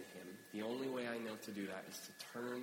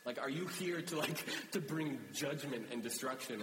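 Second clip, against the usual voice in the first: higher-pitched alarmed questioning; retold panic, raised voice; freaking out; 5 semitones higher, 3 dB louder than usual. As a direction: act out a frightened crowd's questions. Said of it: "they freak out".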